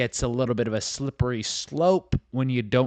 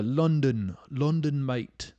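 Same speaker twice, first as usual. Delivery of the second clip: put-on practising an English accent, pitched up; mock-British on London and mate; attempted English accent; 4 semitones higher, slower than usual. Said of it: "I guess, a little better".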